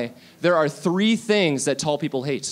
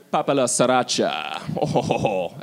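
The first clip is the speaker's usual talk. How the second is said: jolly low voice; 6 semitones lower than usual. Pretend. Mock jolly ho ho ho.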